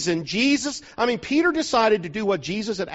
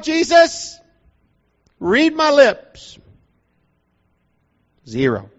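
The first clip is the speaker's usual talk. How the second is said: Peter exasperated. Acted. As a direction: act the worn-out Peter protesting he caught nothing. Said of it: "Peter tells Jesus this".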